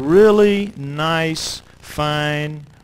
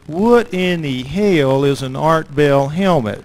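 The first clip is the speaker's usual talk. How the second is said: slow, puzzled guard, a little louder; guard asks; 4 dB louder, slower than usual. Retold or imitated. Guard at the gate questions the helmet, slow and puzzled. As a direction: drag out the question like a skeptical guard. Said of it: "he looks at me and he says".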